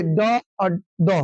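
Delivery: ड और द drawn out very slowly, each letter apart; slow demo. Shown as a demonstration. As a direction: spell out ड और द slowly for students. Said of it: "बता". (बहुत धीरे, अक्षर अलग-अलग)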